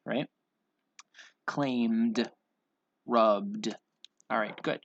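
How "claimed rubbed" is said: crisp word list, each ending in a voiced d; measured, one-word-at-a-time pronunciation drill; final D sound. Shown as a demonstration. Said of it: "say the D sound".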